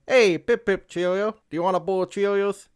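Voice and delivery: high mock British voice, chirpy and cheerful; a hammed-up British gent offering cereal; British accent. British passerby offering Cheerios, in a high mock British accent. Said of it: "a British guy stopping you and saying".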